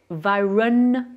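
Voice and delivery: "environment" in English with the middle N stressed and held; sounded English N. Shown as a demonstration. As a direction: lean on each N in "environment". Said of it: "là, j'ai prononcé". (« environment » en anglais, N appuyés)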